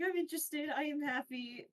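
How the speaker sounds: a slightly forced show of interest; trying to seem interested. Acted. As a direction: act trying very hard to look happy. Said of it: "he's trying very hard to show".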